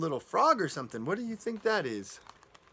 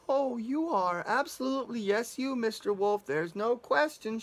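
a lightly voiced girl, higher and eager to please; nervously flattering the wolf, a touch higher; Little Red Riding Hood; 4 semitones higher than usual. Girl quickly agreeing with the wolf, lightly higher. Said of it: "she answered".

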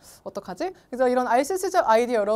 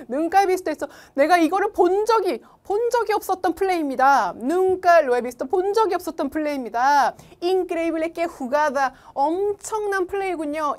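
excited commentary; 5 semitones higher, 4 dB louder than usual. Shown as a demonstration. Reading commentary with translation.

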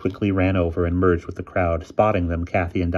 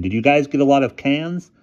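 loud, higher-pitched eager question; crying out; 8 semitones higher, 6 dB louder than usual. A narrator's reading. Boy quizzes his friends over the din, calling out. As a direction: project it over the chatter. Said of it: "cried Bruno over the din".

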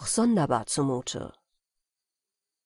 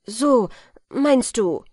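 louder, higher, heated; eager retort; 5 semitones higher, 6 dB louder, slower than usual. Acted. Felix retorting to the smith, eager and heated. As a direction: bristle at the suggestion. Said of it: "entgegnete Felix sehr eifrig".

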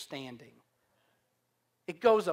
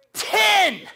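loud count; 9 semitones higher, 7 dB louder than usual. Retold or imitated. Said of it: "And I go".

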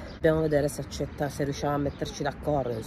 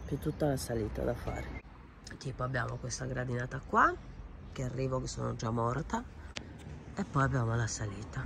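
short of breath climbing stairs; breathless, puffing on the climb; 5 dB quieter than usual. Real, not acted. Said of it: "gradinata che mi toglie il fiato".

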